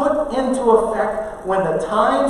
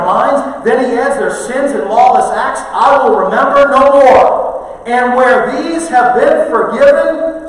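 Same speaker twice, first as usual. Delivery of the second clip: louder, raised reading of the verse; scripture reading; 4 dB louder than usual. Acted. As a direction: proclaim the verses to the congregation. Reads scripture aloud.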